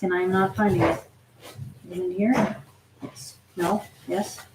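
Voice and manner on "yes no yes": ordinary talk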